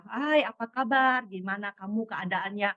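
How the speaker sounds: slow, drawn-out friendly greeting; sapaan ramah. Retold or imitated. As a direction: retell a leisurely, caring hello. Menyapa orang yang dikhawatirkan. (sapaan ramah yang dipanjangkan)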